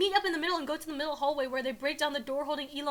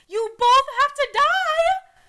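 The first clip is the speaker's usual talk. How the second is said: high, slow, loud threat; hammed-up deadly outburst; villain's threat; 12 semitones higher, 11 dB louder, much slower than usual. A narrator's reading. Reader voices villain's threat.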